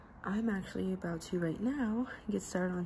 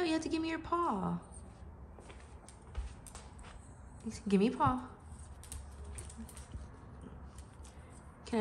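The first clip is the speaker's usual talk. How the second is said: talking to the dogs; 3 semitones higher, 5 dB quieter than usual. Real, not acted. Training and praising her dogs.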